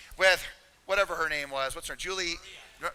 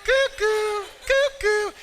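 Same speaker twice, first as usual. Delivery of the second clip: much higher, loud cuckoo-clock call; 6 dB louder, much slower than usual. Retold or imitated. Speaker finishes the Sound of Music song, high cuckoo call. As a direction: chirp it like the clock's bird. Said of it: "what goes after that?".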